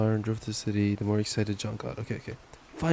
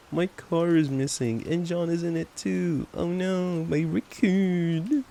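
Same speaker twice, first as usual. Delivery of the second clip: higher, distressed character voice; panicked Jim; 7 semitones higher, slower than usual. A narrator's reading. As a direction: cry out for the lost raccoon.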